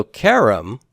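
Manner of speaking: karam said slowly, stretched out. Shown as a demonstration. Teacher explaining vowels: slow careful karam. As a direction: spell out karam gently for students. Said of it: "has a short segol here".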